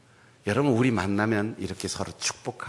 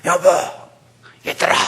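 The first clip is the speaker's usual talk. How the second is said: eager call; 7 semitones higher, 7 dB louder, faster than usual. Retold or imitated. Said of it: "막 기대에 부풀어서".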